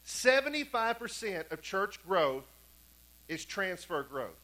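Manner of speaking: "Seventy-five percent" slow and weighty; deliberate, spaced-out stress on "Seventy-five percent"; emphatic repetition. Real, not acted. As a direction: drum in "Seventy-five percent", then let "transfer growth" drop slowly. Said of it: "I'm saying this a few times".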